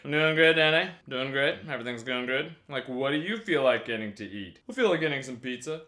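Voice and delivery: soft, low-pitched friendly small talk; low-volume chat. Retold or imitated. Friends chatting in a hotel lobby about food, low-volume. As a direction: keep it down, casual and low. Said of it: "maybe a three or a two, and my volume level".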